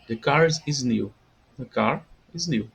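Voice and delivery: slow, clear English "The car is new"; English model sentence. Shown as a demonstration. Teacher models "The car is new" slowly for students. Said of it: "Então".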